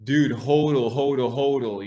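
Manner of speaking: hyped crypto bro. Retold or imitated. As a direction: pump up the crowd like a crypto bro. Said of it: "we had Pompeo saying".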